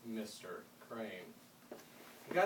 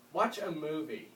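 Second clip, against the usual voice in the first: loud and higher, fed up; exasperated shout; 5 semitones higher, 7 dB louder, slower than usual. Acted. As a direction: shout it out of sheer frustration. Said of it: "he shouted in exasperation".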